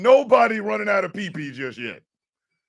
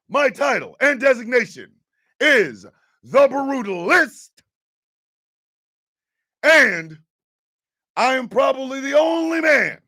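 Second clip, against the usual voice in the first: wrestling villain promo; 3 semitones higher than usual. Acted. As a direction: brag like a wrestling heel.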